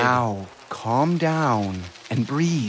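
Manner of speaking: slow, soothing instruction; slow it right down to settle him; calming. Acted. Doctor calming his panicking patient, slow and soothing.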